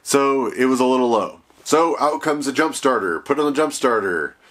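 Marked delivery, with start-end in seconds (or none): none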